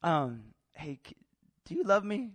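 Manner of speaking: hesitant, halting question to a dad; imitating an awkward, tentative son. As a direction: stall and stumble before asking. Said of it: "it's kinda awkward".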